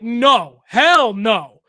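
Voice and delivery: mock irate dad, loud; half-acted livid father shouting no; retold angry outburst. Father forbids Cowboys jersey on baby, mock angry shout. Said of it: "irate, livid".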